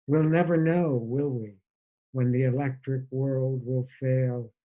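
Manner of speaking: measured poetry recital with deliberate line breaks; poem reading. Acted. Poet reading his letter to Bob to listeners, measured recital. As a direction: read it as a letter-poem, pausing between phrases. Reads own poem aloud.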